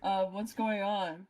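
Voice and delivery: muffled like a phone line; talking through a Pringles can; telephone sound. Real, not acted. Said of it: "You sound like you're on a telephone".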